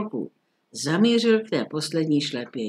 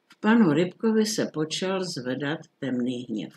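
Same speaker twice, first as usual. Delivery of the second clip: plain reading voice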